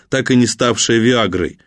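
plain reading voice

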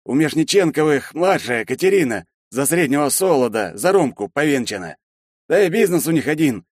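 booming Shchedrin. A narrator's reading. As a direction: wave it off with bluster.

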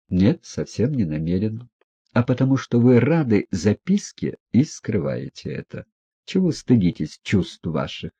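usual speaking voice

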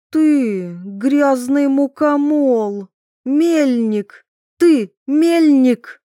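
high, loud, slow furious insults; furious shout. A narrator's reading. Wife screaming insults at her husband, furious high shout.

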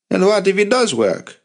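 high-pitched, heated challenge; angry. A narrator's reading. Third commander challenges Avi's plan, angry. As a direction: throw the question at him angrily. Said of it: "had never seen his uncle so angry".

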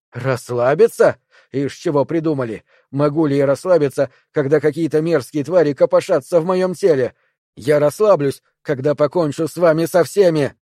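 scornful anger. Acted. Perry scoffs at the triangles telling him to relax, angrily. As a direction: hurl the word back at them.

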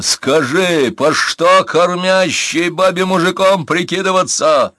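bursting through the pain; biting down on pain. A narrator's reading. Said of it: "сдерживая крик".

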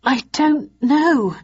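high, slow, faltering reply; stammered. A narrator's reading. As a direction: stumble over the words, rattled. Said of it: "I stammered in reply".

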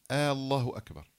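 "الله" begun with a long aa, as "آه الله أكبر"; "الله أكبر" with the first a held long; stretched initial hamza. Shown as a demonstration. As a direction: draw out the opening vowel of "الله" like a question word. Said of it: "عدم مد الهمزة".

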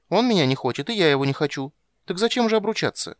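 put-on a girl protesting her betrothal; petulant high young princess; little girl complaining. A narrator's reading. Child Ciri arguing.

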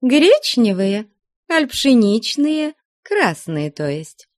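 high, eager nun offering a treat; a nun offering pancakes to her guest, eager and high; fussing hostess. Acted.

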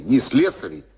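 ordinary delivery

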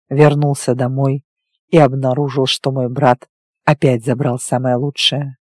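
low, even male character voice; werewolf recounting his past. Acted. Werewolf telling his lover of his childhood, restrained low voice. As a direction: tell a painful history with restraint.

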